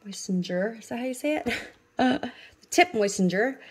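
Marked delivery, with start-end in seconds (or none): 0.1-0.8 "Moistener" with a j sound before the ending, like "moysenjer"; unsure mispronunciation. Real, not acted. Vlogger trying a product's name, mispronouncing "Moistener" with a j. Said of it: "I think I'm saying that wrong". 2.9-3.6 "moistener" said as "moysen-jer"; unsure mispronunciation. Real, not acted. Vlogger retrying the tool's name, mispronouncing "moistener" with a j. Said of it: "I think I'm saying that wrong".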